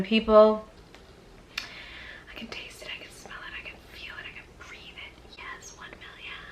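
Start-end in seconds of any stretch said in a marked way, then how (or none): 1.6-6.4 hammed-up whisper. Hammed-up longing for a million.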